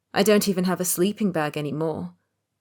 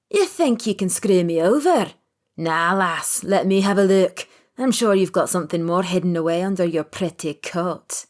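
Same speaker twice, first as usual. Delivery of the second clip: menacing threat; 4 dB louder than usual. A narrator's reading. High junkie threatens the woman.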